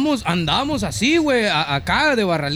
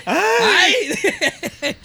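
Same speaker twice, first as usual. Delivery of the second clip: laughing yelp; 9 semitones higher than usual. Pretend. Mock fright reaction.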